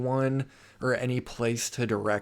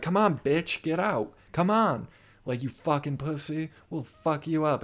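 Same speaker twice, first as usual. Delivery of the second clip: imitated drunken taunts; 5 semitones higher than usual. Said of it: "They're like".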